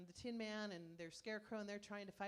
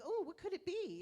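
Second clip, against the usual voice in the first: bright, high, louder excited wondering; curious monkey mind; 10 semitones higher, 8 dB louder than usual. Retold or imitated. Imitating her restless monkey mind, eagerly curious. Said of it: "my monkey mind is going".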